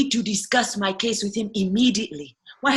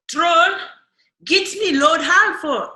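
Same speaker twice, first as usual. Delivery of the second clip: loud, much higher imperious yell; demanding shout; 9 semitones higher, 5 dB louder than usual. Acted. Prisoner ordering the troll guard, shouted.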